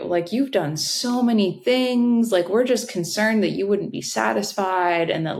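imitating hiring manager. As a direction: let a mock-concerned question climb at the end. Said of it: "the hiring manager, this designer, uh, was like".

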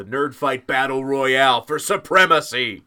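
loud, rising game-show build-up; mock-epic contest announcer; hype announcer. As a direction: announce the big showdown with mock grandeur. Host hypes the final round.

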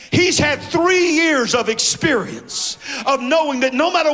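driving, sustained pulpit delivery; full-force preaching. Acted. Preacher to church on God having the remnant, full-force preaching. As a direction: preach it hard, phrase after phrase.

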